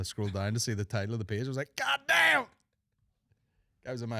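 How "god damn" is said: high, loud mock shock; loud, stunned outburst; shocked exclamation. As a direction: blurt out a stunned god damn. Shocked reaction to pedo page.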